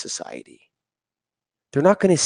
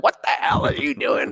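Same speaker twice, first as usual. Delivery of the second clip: mock screaming. Retelling an angry caller's phone call, mock screaming. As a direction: imitate someone yelling down the phone, much higher. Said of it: "called me on the phone screaming and yelling".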